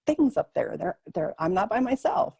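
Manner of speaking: hushed, amazed whisper; whispering in awe at spirits above; awed whisper. Retold or imitated. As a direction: breathe it out in wonder. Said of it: "And I was like".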